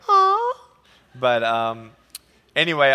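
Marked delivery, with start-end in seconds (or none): 0.1-0.5 high, drawn-out letdown; disappointed kids. Retold or imitated. Kids learning he is not the pilot, disappointed. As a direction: sigh like a let-down child. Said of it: "they were like".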